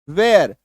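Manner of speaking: वेयर said as wear with a light final r; English word with r. Shown as a demonstration. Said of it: "एक आर की मात्रा".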